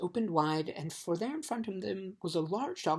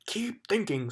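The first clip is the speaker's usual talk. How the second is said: scolding; 5 semitones higher, slower than usual. Acted. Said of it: "scolded the dog".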